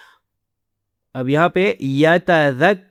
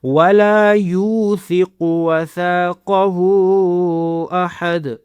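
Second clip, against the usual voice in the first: slow chanted tajweed; chanting a verse as a class model; Quran recitation. Shown as a demonstration. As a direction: recite slowly, each letter clear. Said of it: "teacher recites verse for students".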